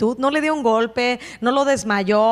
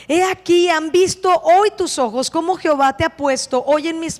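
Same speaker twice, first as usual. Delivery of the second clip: emphatic plea; 5 semitones higher than usual. Acted. David pleads with Saúl.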